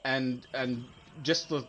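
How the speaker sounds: normal talking voice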